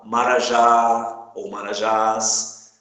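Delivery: MARAJÁ and MARAJÁS slowly, leaning on the last syllable; final stress. Shown as a demonstration. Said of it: "A gente acentua as oxítonas". (marajá ou marajás devagar, alongando a sílaba tônica final)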